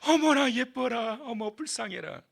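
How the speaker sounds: cooing princess. Acted. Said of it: "바로의 딸이".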